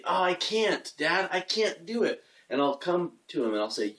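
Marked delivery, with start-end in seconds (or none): 0.0-2.2 lightly voiced toddler, a bit higher; mildly whiny retold "can't" to Dad; a hint of a small child, pitched up; imitated young son. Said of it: "he'll come to me and he'll say".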